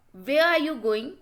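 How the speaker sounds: "Where are you going?" lifting at the end; rising tone. Shown as a demonstration. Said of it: "questions can also be asked in a rising tone".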